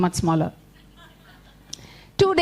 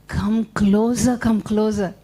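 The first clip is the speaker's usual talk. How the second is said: luring spider; 4 semitones lower than usual. Acted. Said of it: "And he said".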